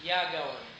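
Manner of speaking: "Ya going" said in one run, "going" with no G at the end; smooth and connected. Shown as a demonstration. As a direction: glide it as one legato phrase. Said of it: "I wanna say".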